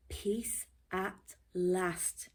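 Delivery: relieved sigh. Acted. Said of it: "he said to himself".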